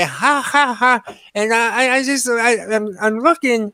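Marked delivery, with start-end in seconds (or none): 0.0-1.1 mock laugh. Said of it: "she's laughing away".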